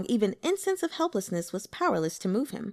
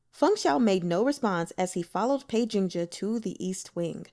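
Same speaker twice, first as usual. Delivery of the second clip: plain reading voice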